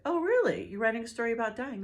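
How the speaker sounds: playing the tipsy woman's delighted shock; drunk surprise. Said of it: "she's like".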